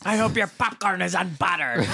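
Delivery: laughing mock curse.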